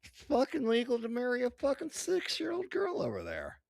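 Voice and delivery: loud, high, furious outburst; angry rant. Real, not acted. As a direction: yell it in outrage. Outraged rant about Iran.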